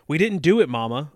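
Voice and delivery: put-on high, loud child's plea; children protesting. A narrator's reading. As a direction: protest like kids in chorus. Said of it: "all three children chorused".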